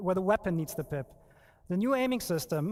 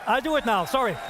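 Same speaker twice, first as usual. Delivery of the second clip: nervous; 4 semitones higher, 5 dB louder than usual. Real, not acted. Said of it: "I'm sorry, I'm nervous".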